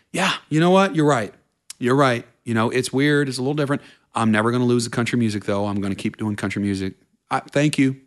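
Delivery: mock-eager yes-man voice; eager people-pleaser. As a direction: gush to please them. Retold people-pleaser agreeing eagerly.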